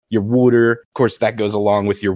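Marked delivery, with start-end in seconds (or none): 0.2-0.7 "water" said as "wooder"; Delco pronunciation. Shown as a demonstration. Debater showing off Philly words, "water" as "wooder". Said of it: "your Delco accent".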